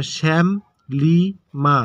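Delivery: শ্যাম লিমা as spaced-out syllables; broken into syllables. Shown as a demonstration. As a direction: pause between each syllable of শ্যাম লিমা. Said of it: "ভেঙে ভেঙে".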